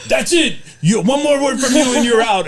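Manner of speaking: high-pitched, exasperated mock warning; hammed-up ref losing patience; mock angry referee. Referee threatening to throw a parent out, mock angry.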